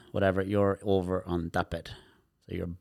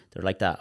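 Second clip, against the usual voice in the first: demo sigh. Shown as a demonstration. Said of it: "you go to touch them to do a treatment".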